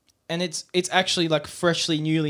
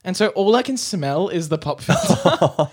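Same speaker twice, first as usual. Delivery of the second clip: talking through a laugh; giggling while speaking; 5 semitones higher, 5 dB louder than usual. Real, not acted. Laughing about smelly pop filter.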